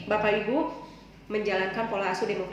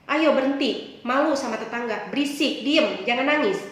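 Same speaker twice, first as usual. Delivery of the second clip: mother scolding; 2 semitones higher, 4 dB louder than usual. Retold or imitated. Mother scolding crying child.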